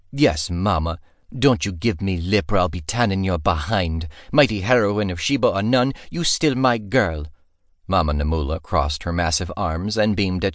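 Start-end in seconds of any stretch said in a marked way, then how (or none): 0.1-7.3 lightly voiced stern cook; motherly mock scold. Cook teasing the heroine she raised, mock stern. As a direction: scold with affection.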